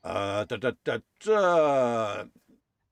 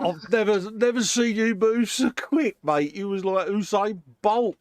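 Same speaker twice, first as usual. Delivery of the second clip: amused teasing; 9 semitones higher, 4 dB louder than usual. Real, not acted. Teasing laughing at Dave.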